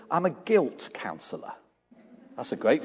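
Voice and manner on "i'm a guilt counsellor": dry quiet answer. Retold or imitated. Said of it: "He says".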